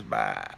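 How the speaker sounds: low, half-hearted imitated bleat; little tiger's subdued baa; weaker sheep bleat. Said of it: "not as loud as he did the first time".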